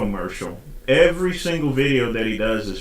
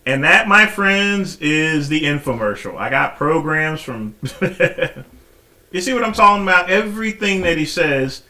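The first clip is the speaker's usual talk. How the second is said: gleeful reveal; 4 semitones higher, 5 dB louder than usual. Real, not acted. Mocking reveal of infomercial.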